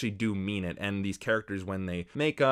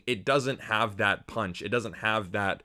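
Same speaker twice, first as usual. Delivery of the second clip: ordinary talk, nothing marked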